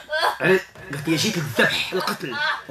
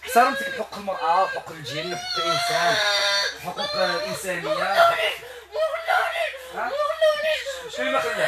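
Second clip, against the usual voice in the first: much higher, thin spirit voice; possessed voice. Real, not acted. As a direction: speak as the spirit inside her. Possessed woman's voice answering. (صوت الجنية المتلبسة، أعلى بكثير)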